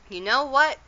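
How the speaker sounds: put-on girl blurting out her idea to her upset mother, excited; sudden exclaim. A narrator's reading. Lightly voiced eager exclamation. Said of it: "exclaimed Arietti suddenly".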